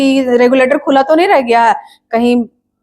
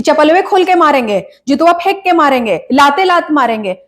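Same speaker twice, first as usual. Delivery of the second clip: mimicked street-Hindi threats, pitched up; roadside Hindi; 3 semitones higher than usual. Mother scolding kids for last visit's talk, mimicked roadside Hindi. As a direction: imitate the kids' rough roadside Hindi. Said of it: "कैसे road छाप हिंदी में बात कर रहे थे".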